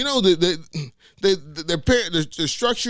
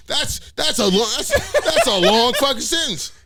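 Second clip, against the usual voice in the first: laughing; 3 semitones higher, slower than usual. Real, not acted. Laughing through.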